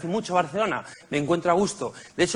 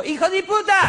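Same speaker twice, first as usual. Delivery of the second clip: much higher, louder mock yell; vendor yelling; 13 semitones higher, 4 dB louder than usual. Comedian voicing the vendor cursing him for stepping on goods, higher mock yell. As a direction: shriek the insult like the furious vendor. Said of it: "hasta que digo".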